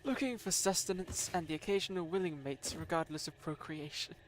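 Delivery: David Attenborough voiceover. Pretend. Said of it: "your David Attenborough voiceover".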